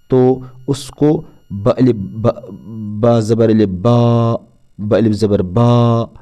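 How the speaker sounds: each vowel held long, spelling out ब अलिफ ब; drawn-out letter reading. Shown as a demonstration. Teacher spelling out बा for students, drawn out slowly. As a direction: stretch the long aa in बा for a full second. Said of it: "मतलब इतना लंबा पढ़ना है।".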